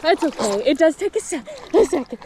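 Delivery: catching breath in cold water; a bit breathless from the cold; in ice cold water. Real, not acted. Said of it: "That's so cold".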